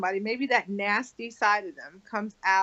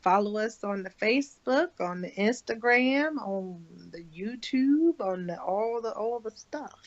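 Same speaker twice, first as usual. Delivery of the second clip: put-on Southern accent. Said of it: "You like my Southern accent?".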